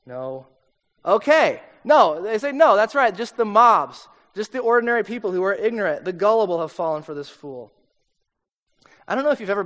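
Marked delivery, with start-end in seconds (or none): 0.1-0.5 a small, low, softer no; sheepish no. Retold or imitated. Guards answering the Pharisees, sheepish and soft. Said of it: "they're just like". 2.5-7.7 a smug, dismissive put-down of the crowd; scornful agreement. Retold or imitated. Pharisees deriding the gullible crowd, smug and scornful.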